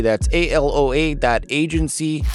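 put-on outrageous Great Lakes accent ad read; hammed-up Great Lakes accent, sponsor spot. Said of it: "I'm using this outrageous Great Lakes accent".

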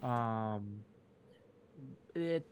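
game master narration. Acted. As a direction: paint the icy climb for the players. GM describes the mountain climb.

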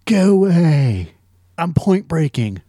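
lightly voiced, slow dismissive surfer; slow Keanu brush-off. Podcaster mocking the scene with a slow, bored surfer brush-off. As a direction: drag it out lazily. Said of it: "You know".

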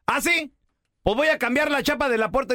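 wife threatening. Retold or imitated. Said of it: "Y le dice la Pau".

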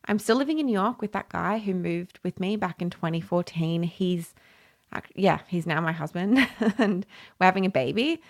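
slightly out of breath, breathy pauses; talking while out of breath. Real, not acted. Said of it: "If I sound like I'm out of breath".

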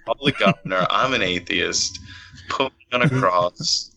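lightly mocked British comedian's accent; Ricky Gervais. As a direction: do a cheeky English comic with a British accent. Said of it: "It's like Ricky Gervais".

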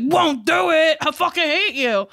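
mock defiant retort; lightly voiced Hulk. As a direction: play a stubborn brute refusing, hammed up a little. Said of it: "he was like".

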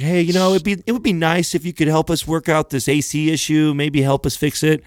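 too nice. Retold or imitated. Co-host imitates Doug gently asking the landlords, too nice. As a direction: imitate an overly nice guy asking lightly. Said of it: "I think Doug's too nice".

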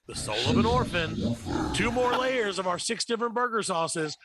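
hyped TV commercial voice; ad announcer. Acted. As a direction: sell it like a cheesy burger ad. Mock fast-food commercial read.

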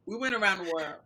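hushed and secretive; whispered aside. Real, not acted. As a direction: whisper it under breath. Aside about the 360.

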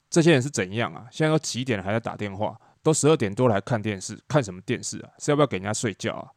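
loud, exasperated complaint with punched words; angry. Retold or imitated. Roommate fed up with late-night phone calls, angry. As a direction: rant like someone kept from sleeping. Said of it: "很生气的跟我讲说".

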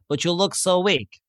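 slow, lightly imitated Russian accent. Big guy sizes up his opponent, mock Russian accent. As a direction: draw it out with a mild Russian accent. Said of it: "You can tell from the accent he's Russian".

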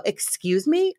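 mock-indignant, rising question; retold indignant reaction. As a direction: mom to daughter in the back seat, retold as indignant. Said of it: "And I go".

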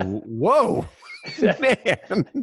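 startled whoa breaking into a laugh; stunned player laughing at the ref; laughing disbelief. Retold or imitated. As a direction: laugh it out in shock. Shocked reaction, laughing.

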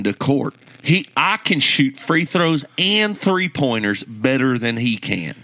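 mock Southern hot-take rant; Southern accent. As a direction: lay down the verdict in a put-on Southern accent. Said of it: "in a Southern accent".

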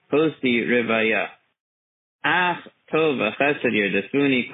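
slow, carefully enunciated prayer recitation; slowly. Acted. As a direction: say each word slowly and clearly. Recites psalm aloud slowly.

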